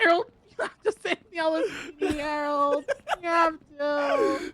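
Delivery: slow, wailing fake sob; mock crying. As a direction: beg through fake tears. Begging not to lose job.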